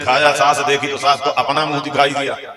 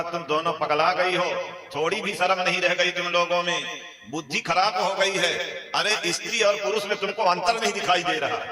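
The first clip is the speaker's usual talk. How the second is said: higher, mild mock scolding; a hint of a stern old man telling them off; father-in-law telling off wife and daughter-in-law, mildly stern; 4 semitones higher, 4 dB quieter than usual. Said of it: "ससुर ने दोनों को डांटा".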